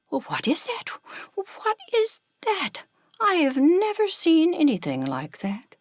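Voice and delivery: high, marvelling creature voice; awestruck hungry creature. A narrator's reading. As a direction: voice a wide-eyed creature spotting a possible treat.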